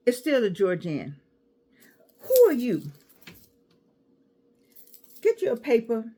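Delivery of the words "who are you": loud call into the crowd. Real, not acted. Calling out teasingly to someone in the audience. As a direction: call out across the room, teasing.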